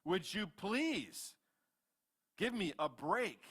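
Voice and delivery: exasperated plea. Acted. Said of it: "and Moses is like".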